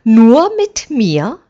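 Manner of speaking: mildly surprised. A narrator's reading. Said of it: "wie verwundert".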